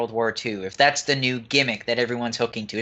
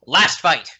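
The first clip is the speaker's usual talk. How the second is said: shouting capitalized words; 5 dB louder than usual. Shown as a demonstration. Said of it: "I'm screaming it because it's in caps".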